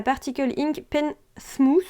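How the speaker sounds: English brand name with a French accent. Real, not acted. Tutor reading out an English brush name, French-accented English. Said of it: "avec mon super accent".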